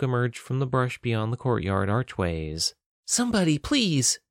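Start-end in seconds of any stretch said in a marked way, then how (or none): 3.1-4.2 high, pleading woman's voice; panted plea. A narrator's reading. Fleeing woman begs guards for help, panted plea. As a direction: plead high with a touch of breathlessness. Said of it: "she panted".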